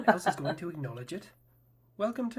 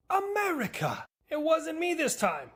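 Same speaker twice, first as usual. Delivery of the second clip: exasperated call-out; 10 semitones higher, 4 dB louder, slower than usual. Acted. Britain yelling at America, exasperated loud call. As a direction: yell America high, then a slow answer.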